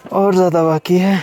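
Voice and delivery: winded from climbing stairs; breathing hard between phrases. Real, not acted. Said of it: "सांस फूल गई इतने में ही". (फूली हुई साँस)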